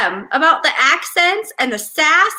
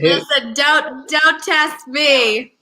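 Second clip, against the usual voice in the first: stern warning; much slower than usual. Real, not acted. Mother warning her four-year-old.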